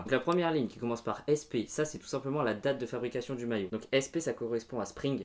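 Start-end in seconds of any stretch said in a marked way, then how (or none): 3.9-5.2 French accent. Shown as a demonstration. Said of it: "Je le dis avec l'accent français".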